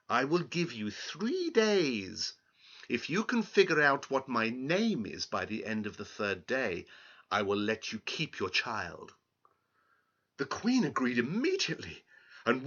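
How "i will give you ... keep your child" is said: sly grin. Acted. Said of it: "with an odd grin".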